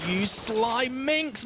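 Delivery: high, drawn-out exclamation; playful exclamation. Real, not acted. Caster reacts to Mad Cat's sneaky attempt, excited. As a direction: stretch it out in excited admiration.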